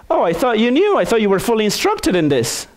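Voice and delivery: high, mock-surprised instructor. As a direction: play the startled instructor. Instructor surprised at unprepared jumper.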